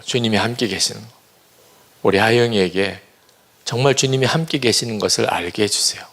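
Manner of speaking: retold prayer. Retells praying for daughter again.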